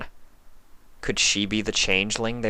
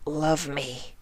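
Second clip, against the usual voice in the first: higher, soft and slow, pleading; hungry changeling; 7 semitones higher, 6 dB quieter than usual. Acted. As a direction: lure her with false love. Changeling repeats.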